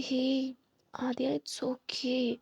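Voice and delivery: very slow, soft reassurance; comforting an upset friend; gentle comfort. Acted. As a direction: draw it out tenderly.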